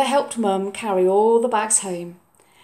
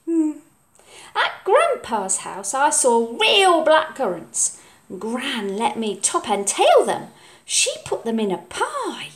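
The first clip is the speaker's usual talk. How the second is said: put-on child voice; 4 semitones higher than usual. Oliver's voice in story.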